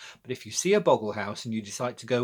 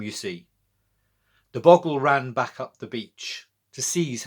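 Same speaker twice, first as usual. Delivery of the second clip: put-on lively rhyming recitation for children; poem reading. A narrator's reading. Reciting a seaside bogle poem to young listeners, bright storytelling.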